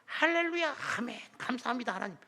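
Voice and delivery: high, bright burst of hallelujah; joyful praise. Retold or imitated. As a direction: shout thanks to God with joy. Overjoyed thanks after phone call. (기뻐 외치는 할렐루야)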